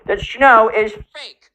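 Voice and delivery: lightly mocking know-it-all; smug challenge. Gen Z kid challenging the teacher, smug mock taunt. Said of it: "He's like".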